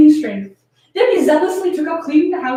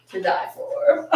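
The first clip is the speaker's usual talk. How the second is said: breathy whisper, lower; 8 semitones lower, 6 dB quieter, much slower than usual. Acted. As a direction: whisper it to the mirror. Character line unvoiced.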